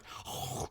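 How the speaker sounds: soft, voiceless monster huffs; breathy imitation of a creature gorging itself; imitated devouring breaths. Jack-in-the-box devouring a cousin, imitated breathy huffing. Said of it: "you can just see it going like".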